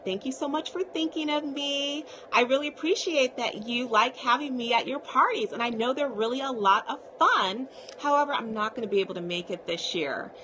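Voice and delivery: polite, heartfelt refusal with a slight lift; sincere gracious decline. Shown as a demonstration. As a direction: decline kindly, as if thanking a friend. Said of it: "And I say that very sincerely to people".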